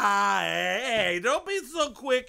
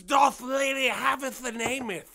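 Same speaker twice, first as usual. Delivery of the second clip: mock old English; 3 semitones higher than usual. Mock old-fashioned speech.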